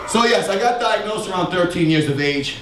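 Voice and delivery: winded, short of breath; talking while out of breath. Real, not acted. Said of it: "let me catch my breath".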